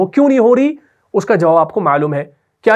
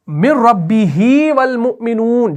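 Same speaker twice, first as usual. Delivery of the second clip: careful recitation; 3 semitones higher, much slower than usual. Shown as a demonstration. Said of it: "دھیان رکھیے".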